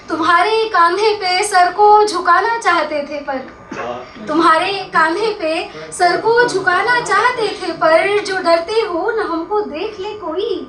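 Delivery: mushaira-style ghazal recital; poetry recitation. Acted. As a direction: recite the couplet and stretch out the refrain. Recites poem with refrain.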